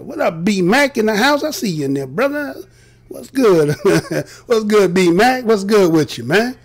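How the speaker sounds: loud, hyped greeting across the room; excited call-out. Real, not acted. Host greets B Mac in the audience, excited and loud. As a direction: hail your buddy in the crowd with energy.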